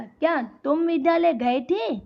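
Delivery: emphatic demonstration question ending on "थे"; questioning tune. Shown as a demonstration. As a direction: ask it, peaking then falling on "थे". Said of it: "जैसे उसको प्रश्न पूछ रहे हैं".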